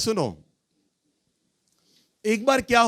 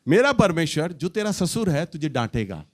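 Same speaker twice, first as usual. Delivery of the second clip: joking threat. Retold or imitated. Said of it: "मैं मजाक में पता है इसे क्या कहता हूं".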